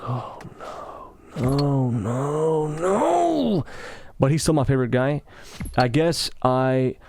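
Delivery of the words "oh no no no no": mock horror. Reacting to a coworker's "Slava Ukraini", mock horror. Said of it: "I'm like".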